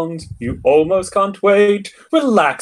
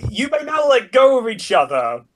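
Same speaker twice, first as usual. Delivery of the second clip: priest voice; 5 semitones higher than usual. Pretend. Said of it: "the priest with a crowbar".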